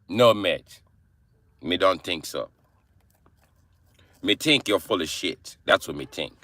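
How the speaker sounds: put-on Jamaican accent, dismissive. Shown as a demonstration. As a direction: brush them off in Jamaican patois. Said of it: "Jamaican accent sounds like me British accent".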